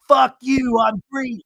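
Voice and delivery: high, loud mock outburst; confrontational. The speaker pointing in Lisa's face, high mock yell. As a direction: imitate a defiant high-pitched yell. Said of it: "she gets up, pointing in Lisa's face".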